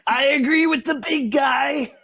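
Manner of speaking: very high, loud mock wail; toady voice. Co-host joins the joke as a groveling yes-man, in a high wail. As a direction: whine along like a spineless yes-man. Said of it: "the strongest guy there is like".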